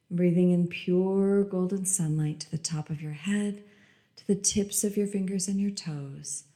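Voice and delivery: calm meditative tone. Acted. Repeated meditation phrase.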